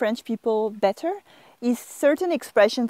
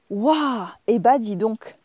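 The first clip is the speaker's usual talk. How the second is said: impressed surprise; slower than usual. Shown as a demonstration. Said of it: "you're very impressed".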